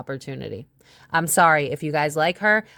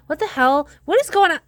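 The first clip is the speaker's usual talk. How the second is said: high, louder baffled exclamation; 9 semitones higher, 4 dB louder than usual. Real, not acted. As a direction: throw up your hands, confused. Confused by the cards.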